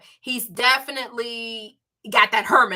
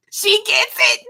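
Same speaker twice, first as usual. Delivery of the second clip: She gets it, squealed much higher with a rising end; excited; 12 semitones higher, 7 dB louder than usual. Real, not acted. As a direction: gush it fast and high. Praising supportive friend Penny.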